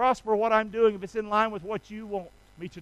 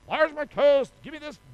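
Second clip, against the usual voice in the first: greedy demand; 4 semitones higher than usual. Retold or imitated. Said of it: "No, that's not what".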